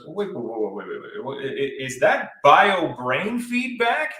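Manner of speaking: hushed repeated waits that climb to a high, slow alarm; a mock computer overlord catching a glitch; the Matrix glitching. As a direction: start whispery, then pitch way up as if the system panics. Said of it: "the Matrix goes".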